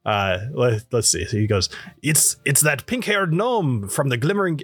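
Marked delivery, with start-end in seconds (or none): 2.0-4.6 lightly voiced character, slightly raised; a hint of another character's voice, slipping from Dwarven; Alessio. Game master fumbling the dwarf, mistaken character voice. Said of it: "no, that's, uh, Alessio's voice".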